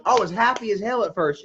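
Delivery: amused confession; laughing. Real, not acted. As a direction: chuckle while admitting it. Laughing remembering freedom.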